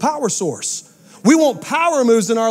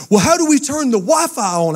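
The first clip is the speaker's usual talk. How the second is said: put-on whiny kid; 6 semitones higher than usual. Kids begging Daddy about the Wi-Fi, high whiny child voice. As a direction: plead like a panicked little kid. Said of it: "kid's reply in the dialogue".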